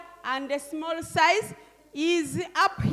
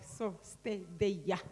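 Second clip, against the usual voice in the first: imitating a toddler; 6 semitones lower, 8 dB quieter, slower than usual. Grandmother mimicking her grandson's slow, lowered little order. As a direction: lower and softer, slow "so sted eja" in a small child's voice. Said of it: "when he's like".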